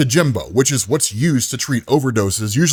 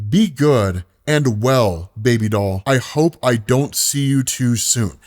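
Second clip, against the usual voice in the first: tender letter from heaven; slower than usual. Acted. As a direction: read it like a gentle goodbye from above. Karen's letter continues.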